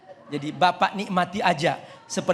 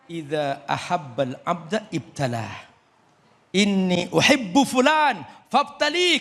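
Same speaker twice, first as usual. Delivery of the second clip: solemn divine words; slower than usual. Retold or imitated. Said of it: "kata Allah".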